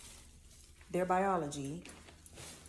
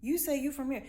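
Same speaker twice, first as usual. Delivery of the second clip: high doubtful Okay; sceptical okay; 7 semitones higher than usual. Retold or imitated. Speaker retelling doubting the stranger, high sceptical okay. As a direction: let the doubt ride on Okay. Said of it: "I said".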